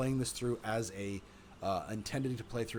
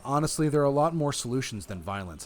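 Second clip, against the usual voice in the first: raised, louder, higher declaration; clear voice; 5 semitones higher, 7 dB louder than usual. A narrator's reading. Maya telling both sides violence isn't the answer, clear voice. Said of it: "I said in a clear voice".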